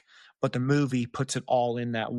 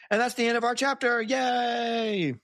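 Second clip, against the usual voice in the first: high, bright little cheer; excited cheer; 10 semitones higher than usual. Real, not acted. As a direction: celebrate finishing the chapter. Cheers end of chapter.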